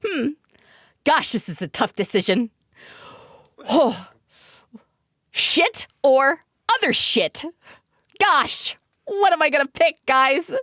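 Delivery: mock indecisive customer. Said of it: "So it's like".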